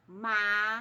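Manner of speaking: "Matemática" in five loud, separated syllables; one beat per mouth movement through "Matemática". Shown as a demonstration. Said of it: "Cada movimento da boca".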